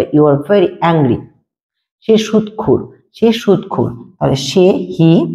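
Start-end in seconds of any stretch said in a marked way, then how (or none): 0.0-1.2 slow, careful, very leaned on; slow model sentence. Shown as a demonstration. Teacher slowly repeats the translation for students. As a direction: dictate it slowly for the class. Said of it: "তুমি খুবই রকচটা".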